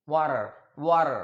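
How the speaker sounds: water as "wadder"; water with a soft D flap. Shown as a demonstration. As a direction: tap the T in water like a quick D. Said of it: "It's not ड".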